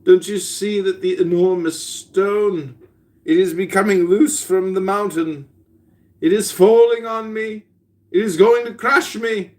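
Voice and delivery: hammed-up rising terror; alarmed sleeper. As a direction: cry out from a nightmare. Sleeper dreams of falling stone.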